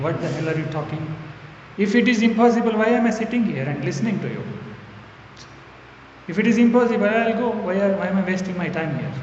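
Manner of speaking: mild mock outburst, rising in force; indignant inner rant, voiced with some heat; retold anger. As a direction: replay an exasperated silent protest at a speaker. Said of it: "I used to feel angry".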